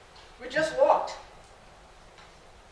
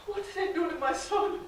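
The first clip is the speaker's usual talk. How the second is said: softer, broken repeat of the question; hushed grief; 4 semitones higher, 4 dB quieter than usual. Acted. Mother watching her son run away, hushed grief. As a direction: let it sink into quiet despair.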